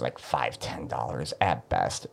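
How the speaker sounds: talking through a burp; burping the words. Real, not acted. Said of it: "I really have to burp from this coffee".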